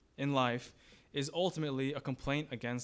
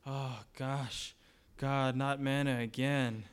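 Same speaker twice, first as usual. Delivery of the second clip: weary groaned grumble, drawn out; complaining; slower than usual. Acted. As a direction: play mildly fed-up Israelites, slowly. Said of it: "what do they say? ... they were complaining".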